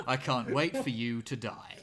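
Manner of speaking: whispered through laughter; giggling whisper; laughing whisper. Pretend. Mock villager line while laughing.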